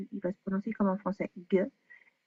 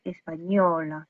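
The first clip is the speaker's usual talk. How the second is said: "espagnol" said slowly with the weight on the last syllable "nol"; stress on ñol; 3 semitones lower, 3 dB louder, much slower than usual. Shown as a demonstration. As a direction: lean on the end of "espagnol". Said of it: "je vais prononcer le plus le nion".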